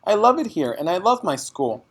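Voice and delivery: put-on high, loud pleading child's voice; a little girl protesting; child begging her father; upset child. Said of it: "Matilda cried".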